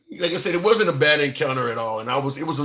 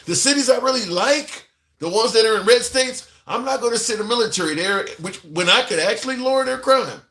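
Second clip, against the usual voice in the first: a hint of a smug politician, pitched higher; mock president; 5 semitones higher than usual. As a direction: voice the president's hidden thinking, lightly mocking. Mocking the president's inner thoughts.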